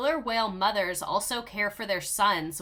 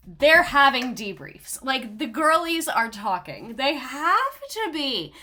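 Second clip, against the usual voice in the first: excited gossip; 4 semitones higher, 6 dB louder, slower than usual. Real, not acted. Excited claim about orcas.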